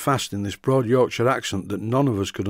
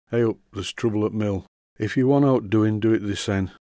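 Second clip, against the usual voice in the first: Yorkshire dialect. Shown as a demonstration. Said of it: "I really cannot do this in a Yorkshire dialect".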